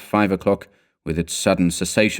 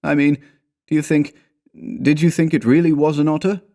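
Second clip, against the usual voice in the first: higher-pitched voice, halting and unsure; uneasy companion; 8 semitones higher than usual. A narrator's reading. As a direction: falter into an anxious question.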